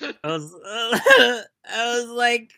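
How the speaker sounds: high, loud laugh breaking into the words. Real, not acted. Recalling the coworker's faggot remark, bursting into laughter. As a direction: crack up mid-sentence. Cracking up retelling coworker story.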